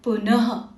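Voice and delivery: पुनः with an audible ह at the end; breathed visarga. Shown as a demonstration. Teacher pointing out the ह sound to pupils, breathed ending on पुनः. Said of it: "आपको एक सांस छोड़ते हुए".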